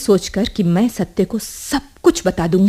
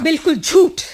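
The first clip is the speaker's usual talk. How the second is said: higher, louder protest; indignant denial; 5 semitones higher, 5 dB louder than usual. Acted. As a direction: cut in with a sharp denial. Woman denies the accusation.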